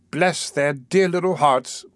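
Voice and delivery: drawn-out, tender fussing over little ones; with emotion. Acted. Missus Mann tells the beadle about the children, with emotion. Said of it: "said Missus Mann with emotion".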